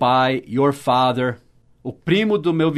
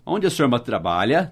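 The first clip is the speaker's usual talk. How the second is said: "trabalha" lifts at the end; English question intonation in Portuguese. Shown as a demonstration. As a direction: carry the English tune into Portuguese, rising on "trabalha". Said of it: "Tá vendo a entonação em inglês?".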